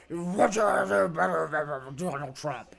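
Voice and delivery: mock wrestler's promo voice; wrestling entertainer. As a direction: put on a showy wrestler's delivery. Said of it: "wrestling entertainer just went up there and said".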